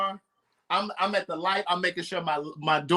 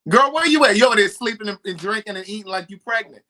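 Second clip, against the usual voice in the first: excited call; 3 semitones higher, 5 dB louder than usual. Real, not acted. Calling out to guest on line.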